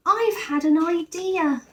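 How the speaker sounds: high, loud eager reply; keen bear offering at once. A narrator's reading. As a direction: jump in to help. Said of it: "said Paddington eagerly".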